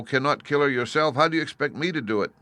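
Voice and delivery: put-on pleading little girl. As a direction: plead up at the wizard like a frightened child. Dorothy pleads with Oz.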